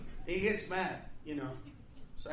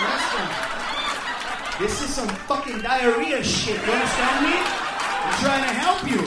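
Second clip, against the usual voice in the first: exasperated; 3 dB louder than usual. Retold or imitated. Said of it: "I'm like".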